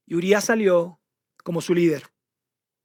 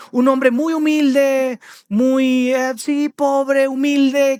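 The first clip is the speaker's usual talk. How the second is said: slow, higher and louder on each word; drawn-out emphasis; 6 semitones higher, 4 dB louder, much slower than usual. Acted. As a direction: linger over how poor he was. Nathan describing the poor man.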